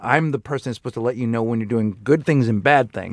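understated, unhappy parental tone; stern displeasure. Acted. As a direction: let a child hear mild disapproval. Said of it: "My tone is indicating that I'm unhappy".

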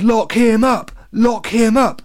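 high, loud chanting cry; rabble-rousing shout. A narrator's reading. Someone in the crowd turns on Alex, shouting. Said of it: "someone shouted".

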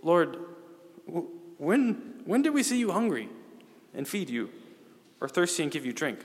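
high, incredulous "when did we see you"; bewildered question. Retold or imitated. Righteous asking the Lord, bewildered and high. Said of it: "what do they say? They're like".

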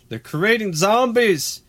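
high, hammed-up Southern redneck drawl; redneck accent. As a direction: play an overexcited hick. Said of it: "your redneck accent is improving".

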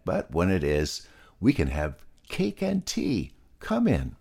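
lightly voiced friendly hostess pig; Freddy the pig. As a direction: welcome a friend in to tea. Freddy greets Molasses.

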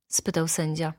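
usual speaking voice

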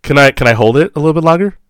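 high, loud, fast wheedling; whiny pleading. Retold or imitated. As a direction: beg to hold it longer. Acted whiny customer.

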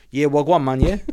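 put-on lightly done London roadman accent; Top Boy London slang. Friend picking up the phone, mock London street accent. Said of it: "it was Top Boy we were watching".

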